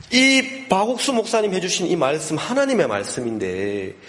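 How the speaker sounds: high-pitched, insistent exhortation; imitated scolding shout. Wife rebuking husband for wavering in faith, acted shouting. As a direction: act out a wife crying out her conviction. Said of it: "소리치는 거야".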